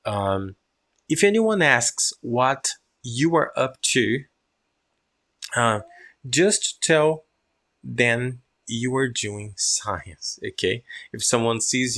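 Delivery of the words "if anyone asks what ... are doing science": slow read-aloud; deliberate model reading. Shown as a demonstration. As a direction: draw each phrase out for the class. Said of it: "now listen my pronunciation".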